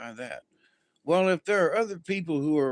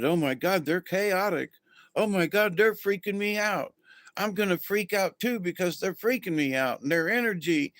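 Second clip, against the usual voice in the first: higher, breathless mock panic; panicky overreaction; 5 semitones higher than usual. Imitating someone caught up in a relative's chaos, mock panic. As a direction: spiral into freaking out, half-joking. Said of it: "reacting in that".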